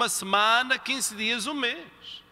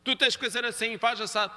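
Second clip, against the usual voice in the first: bossy order; 3 semitones higher than usual. Retold or imitated. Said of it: "É como ele é o pai".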